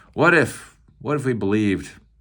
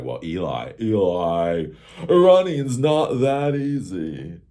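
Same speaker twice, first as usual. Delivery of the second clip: whiny complainer; 4 dB louder, much slower than usual. Retold or imitated. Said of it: "some of you people might be like".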